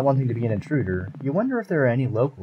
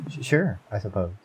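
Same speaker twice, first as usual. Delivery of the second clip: timid. Acted. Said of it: "the creature replies timidly".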